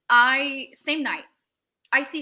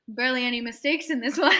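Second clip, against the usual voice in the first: pitched up, breaking into a laugh; amused retold verdict; 4 semitones higher, 4 dB louder than usual. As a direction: deliver the quote, then crack up. Tattoo veteran's verdict, retold laughing.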